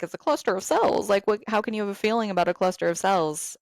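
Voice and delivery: mock disbelief, belittling the loss; dismissive incredulity. Host voices an unsupportive friend doubting the loss, dismissive.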